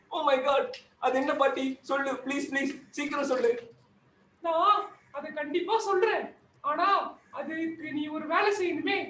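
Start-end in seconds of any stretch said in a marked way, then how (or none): 4.4-9.0 higher, lightly voiced granny; concerned granny. Granny asks the crying Joker, in a higher voice, what happened. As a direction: ask gently why he cries.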